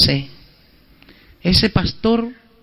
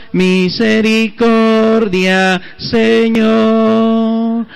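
monotone priestly prayer, drawn out at the end; liturgical intoning; slower than usual. Acted. Priest reciting the Mass prayer for the congregation, monotone intoning. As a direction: intone it on one steady note.

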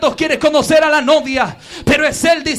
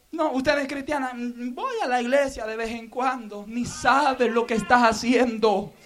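hushed preaching; 2 semitones lower, 8 dB quieter than usual. Real, not acted. Pastor gently confronting lukewarm churchgoers, hushed preaching. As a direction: drop almost to a murmur to draw them in. Soft intimate appeal.

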